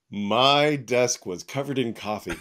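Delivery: real laughter breaking into a high laugh. Real, not acted. Telling the host about the coffee spill, laughing for real. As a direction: giggle through the coffee mishap.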